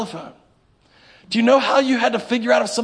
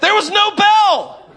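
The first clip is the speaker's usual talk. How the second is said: higher, slow, laughing near-shout; slow, loud laugh of disbelief; 10 semitones higher, 5 dB louder, slower than usual. Real, not acted. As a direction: marvel aloud, laughing.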